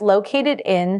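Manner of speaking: "located in" run together as one smooth sound; linked words. Shown as a demonstration. Teacher shows "located in" linked smoothly. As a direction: glide "located in" into one movement. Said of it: "Connect the words".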